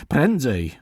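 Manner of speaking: lightly voiced urgent call; a mild urgent shout. A narrator's reading. Servant calls the men to hurry, urgent. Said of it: "wołał Murzyn".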